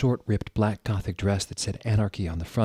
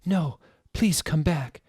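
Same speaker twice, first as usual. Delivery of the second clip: mock sad plea; 8 semitones higher, 3 dB louder, slower than usual. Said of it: "shouted Draco sadly".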